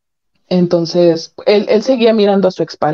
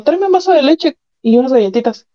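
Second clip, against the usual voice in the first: casual order, pitched up a little; husband's demand; 5 semitones higher than usual. Retold or imitated. After the assault the husband casually orders milk and cookies. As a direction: toss off the request like nothing happened. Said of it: "Terminó y me dijo".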